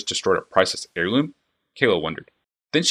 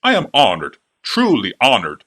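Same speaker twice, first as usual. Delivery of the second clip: fawning clockmaker; 3 semitones higher, 6 dB louder than usual. A narrator's reading. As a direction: gush over the princess like an eager flatterer. Clockmaker fawns over princess.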